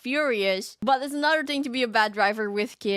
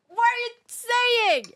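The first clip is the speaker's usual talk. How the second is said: mock disbelief; 11 semitones higher than usual. Mock outrage at the post.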